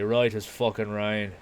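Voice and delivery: a hint of Irish accent, drawn on "rain"; lightly put-on Irish accent, emphatic wording; selling it, Irish-style. Shown as a demonstration. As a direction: sell it with a light Irish lilt. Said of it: "If I really want to sell it".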